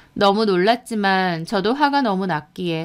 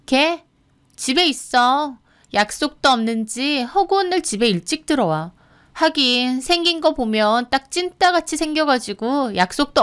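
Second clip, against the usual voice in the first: pointedly overheard; 4 semitones higher than usual. Acted. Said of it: "일부러 저 들으라고 하는 것 같았어요".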